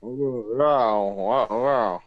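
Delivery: talking around a pipe stem; words mushed by pipe in mouth; pipe in teeth. Real, not acted. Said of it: "you talking through a mask?".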